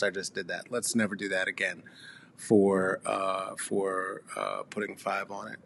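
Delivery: sheepishly muttering an apology to his listeners; embarrassed mumble. Real, not acted. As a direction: mutter it away, ashamed of the joke. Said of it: "I'm really, truly a little bit embarrassed".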